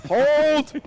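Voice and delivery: high, slow drawn-out order; dramatic commander. Pretend. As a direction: hold the line like a movie hero. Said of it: "Let me take my shoes off".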